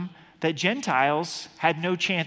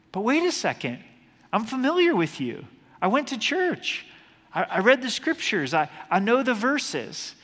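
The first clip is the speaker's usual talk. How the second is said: protesting excuse; 5 semitones higher than usual. Retold or imitated. Rejected person protesting to the Lord.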